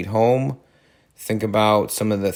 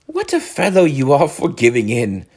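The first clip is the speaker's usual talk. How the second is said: calm Rat; 4 semitones higher than usual. Acted. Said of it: "said the rat calmly".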